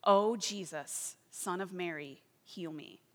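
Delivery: slow, drawn-out pleading prayer; slow earnest prayer. Retold or imitated. Praying to Jesus for healing, slow and pleading. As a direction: plead slowly, leaning on each name. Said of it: "she began praying in his name".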